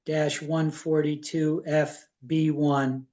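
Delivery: measured reading, phrase by phrase; deliberate reading aloud. Real, not acted. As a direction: read out the motion carefully, pausing between clauses. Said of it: "I'll read it slowly".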